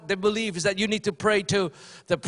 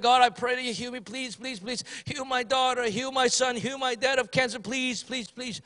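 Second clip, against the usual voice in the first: mock pleading prayer; 2 semitones higher, 4 dB quieter than usual. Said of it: "they pray like that".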